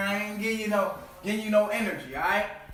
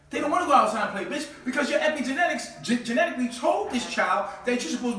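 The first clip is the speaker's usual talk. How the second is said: ranting shout; 6 semitones higher, 5 dB louder than usual. Real, not acted. Ranting at the audience.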